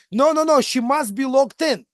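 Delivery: mock the landlady's firm refusal; mimicking the landlady. Landlord insists cleaner be locked.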